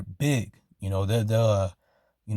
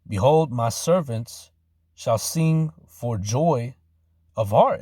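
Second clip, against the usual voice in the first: slow, drawn-out solemn preaching read; scripture reading; slower than usual. Acted. Preacher reading Isaiah to his listeners, slow and solemn. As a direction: stretch each word like a pulpit reading. Reads Isaiah verse aloud.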